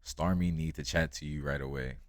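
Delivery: light Jamaican patois at normal pace; Jamaican accent. Retold or imitated. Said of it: "He said in his thick Jamaican accent".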